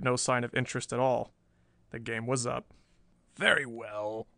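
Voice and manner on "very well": put-on sullen old villain giving in. A narrator's reading. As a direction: yield grudgingly, resentfully. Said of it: "he said sullenly".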